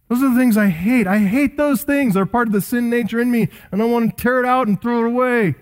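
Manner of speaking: rising, impassioned voicing of Paul; a hint of Paul's passionate lament; fervent quoted confession. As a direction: preach Paul's hatred of sin with building fire. Voicing Paul's hatred of sin.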